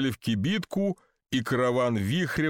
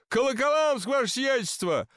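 very high, eager call; narrated shout, pitched way up; shouting from crowd; 11 semitones higher than usual. A narrator's reading. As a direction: report it eagerly to his lordship from afar. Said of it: "закричал из толпы Никита Псов".

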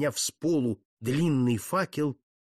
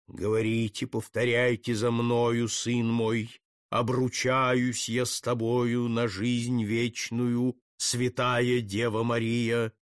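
lower, slow, ritual chant-like lines; solemn priestly intoning; 3 semitones lower, slower than usual. Acted. Jesuit leading the doomed count's vow, solemn and slow.

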